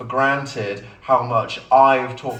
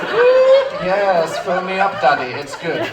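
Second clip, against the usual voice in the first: high, loud, cheeky bin voice; voiced smart bin; 5 semitones higher, 5 dB louder, slower than usual. The bin answering its owner, squeaky and cheeky. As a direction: give the bin a squeaky, saucy reply. Voicing the bin's reply.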